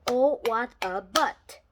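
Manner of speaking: slow, goofy put-on voice; joking pun in a funny voice; lightly put-on silly voice. Silly pun on water butt.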